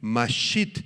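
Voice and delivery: mashit, stress landing on the final I. Shown as a demonstration. Repeating the Hebrew word for the congregation, mashit stressed on the I. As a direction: set mashit apart, accenting its last syllable. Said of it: "con acento en la I".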